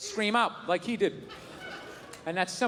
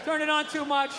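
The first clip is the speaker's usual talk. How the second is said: covering excuse; 4 semitones higher than usual. Retold or imitated. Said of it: "And I'll just be like".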